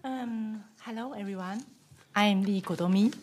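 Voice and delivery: hoarse from a cold, duck-like voice; croaky, sick voice. Real, not acted. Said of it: "just my voice just sounds like a duck".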